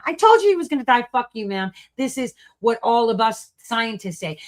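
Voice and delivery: loud, fast mock of an arrogant doctor. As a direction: sneer as the callous doctor. Mock doctor in acted scene.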